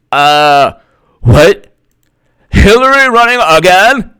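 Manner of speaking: lightly mocking put-on activist voice; far-left impression. Activists find out Clinton runs, mock disbelief. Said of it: "this is my impression of the farthest left".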